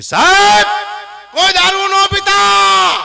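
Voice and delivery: high, slow bellowed warning; mock-grand shouted advice against drink; loud preaching. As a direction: boom out the sermon like a stage preacher.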